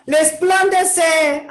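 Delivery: drawn-out shouted "Resplandece"; commanding call. Retold or imitated. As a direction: call it out like God waking you. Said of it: "Está diciendo también".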